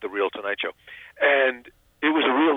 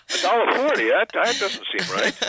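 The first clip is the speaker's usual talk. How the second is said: mock disbelief; 9 semitones higher than usual. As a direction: query it in a high, dismayed voice. Acted reaction to tiny residual checks.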